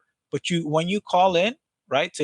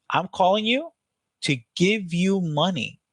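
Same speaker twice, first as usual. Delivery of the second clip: higher-pitched, drawn-out excited pitch; 4 semitones higher than usual. Shown as a demonstration. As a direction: sell the good news slowly with real lift. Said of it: "You need to sound excited as fuck".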